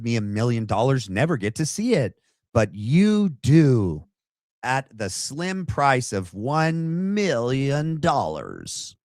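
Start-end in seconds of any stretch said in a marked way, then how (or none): 2.5-9.0 slow, sly evil salesman; villain pitch. Retold or imitated. Vlogger mocking the widow as a slow sly villain. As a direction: drawl the price like a villain. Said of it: "she's like Doctor Evil".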